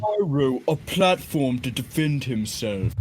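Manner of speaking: slow, lightly put-on YouTuber voice; deliberate, stretched-out impersonation; Pyrocynical impression. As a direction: draw each word out in mild parody. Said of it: "Pyrocynical impression. What about you".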